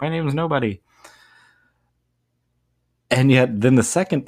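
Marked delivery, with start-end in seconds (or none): 0.0-0.8 Odysseus. Retold or imitated. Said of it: "Odysseus is like".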